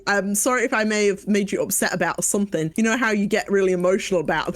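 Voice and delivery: mocking a non-apology; lightly voiced dismissive sorry; hollow, grudging sorry; fake apology. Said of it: "Not a real apology".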